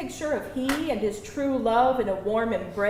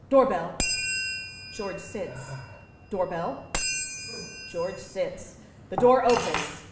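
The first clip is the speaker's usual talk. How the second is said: much softer and lower, drained and hollow; hushed narration; 5 semitones lower, 6 dB quieter than usual. A narrator's reading. Narrator reading the shell-shocked George scene, hushed. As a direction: let each word sink, numb and spent.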